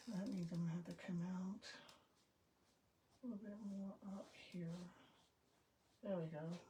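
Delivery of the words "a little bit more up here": whispering. Real, not acted. Whispering to self while drawing.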